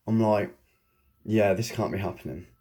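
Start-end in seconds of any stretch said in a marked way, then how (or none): 1.2-2.5 soft laugh through the words; can't quite believe it, laughing quietly; laughing disbelief. Retold or imitated. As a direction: chuckle in disbelief. Reacting to the vision.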